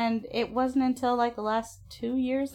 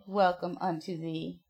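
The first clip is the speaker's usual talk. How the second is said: mock biblical prophet; 4 semitones lower, 5 dB quieter than usual. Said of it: "I say".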